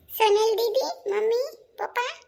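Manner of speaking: high, slow, drawn-out call. Acted. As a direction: call round the house for the family. Sister-in-law comes out calling the family. (ઊંચા અવાજે બોલાવવું)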